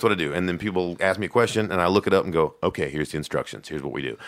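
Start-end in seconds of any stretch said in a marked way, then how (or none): 2.6-4.2 soft instructions. Shown as a demonstration. Calm instructions to caller.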